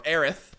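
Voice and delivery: Aerith ending in a "th" sound; alternative pronunciation. Shown as a demonstration. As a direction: say Aerith in two syllables, closing on "th". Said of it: "that's the Japanese version of the name".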